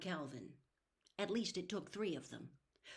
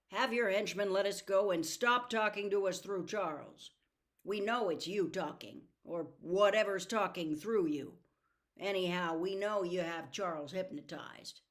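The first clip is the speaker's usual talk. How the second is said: louder, demanding and firm; firm confrontation; 5 dB louder than usual. Acted. Calvin confronting the red-eyed man, loud and firm. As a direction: stand up to the villain.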